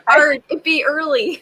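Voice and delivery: pirate voice slipping into Canadian; botched pirate accent. Pretend. Greeting early Saturday viewers, pirate accent turning Canadian. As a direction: try a pirate accent and land near Canadian. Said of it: "I don't know why I'm turning Canadian now".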